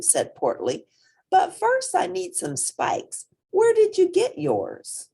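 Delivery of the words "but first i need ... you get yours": put-on high, bright-eyed young hippo voice; squeaky young hippo pressing eagerly; eager little hippo. Young hippo Portly asking the rhino about horns, high and eager.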